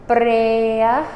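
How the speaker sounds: Breh drawn out slowly with a rolled r. Shown as a demonstration. Teacher says breh slowly for students, drawn-out careful syllable.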